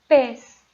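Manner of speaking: "pes" punched out loud on its own; stressed syllable isolated. Shown as a demonstration. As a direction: hit "pes" hard as the strong syllable. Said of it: "A sílaba tônica é".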